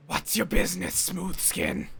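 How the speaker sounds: lightly rasped ghoul voice; a hint of a raspy ghoul. Shown as a demonstration. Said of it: "I can do a pretty good ghoul voice".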